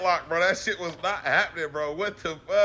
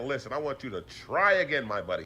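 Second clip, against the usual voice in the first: mock patient coaxing; 4 semitones lower, 6 dB quieter than usual. Voices John Cena coaching opponent.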